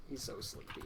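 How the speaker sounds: hushed whisper to a pet. Real, not acted. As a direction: whisper so the cat stays asleep. Soft talk to a sleeping cat.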